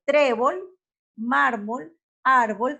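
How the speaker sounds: loud first syllables on "trébol", "mármol", "árbol"; teacher's spaced examples "trébol", "mármol", "árbol", each hit on the first syllable; stress on the penultimate syllable. Shown as a demonstration. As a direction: punch TRÉ in "trébol", MÁR in "mármol", ÁR in "árbol". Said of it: "las graves o las llanas".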